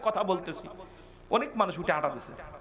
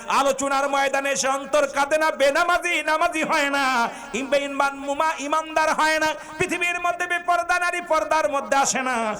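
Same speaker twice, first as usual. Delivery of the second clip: high, ringing chanted complaint; impassioned preaching; 9 semitones higher, 5 dB louder than usual. Real, not acted. Preacher lamenting sermons that no longer move hearts, impassioned preaching. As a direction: drive each line out in a raised chant.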